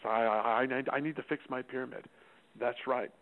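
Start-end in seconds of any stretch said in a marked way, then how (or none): 0.0-2.1 sheepish. Retold or imitated. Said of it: "he says".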